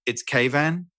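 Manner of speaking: "Kayvan" with KAY first and a clear "van"; correct pronunciation. Retold or imitated. Man correcting a caller who misnamed him, "Kayvan" as KAY-van. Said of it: "my name is Kayvan".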